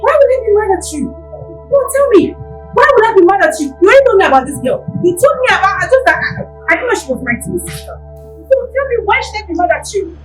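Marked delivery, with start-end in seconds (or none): 0.0-4.8 louder, biting; mock the question; sarcastic anger. Sister argues, sarcastic.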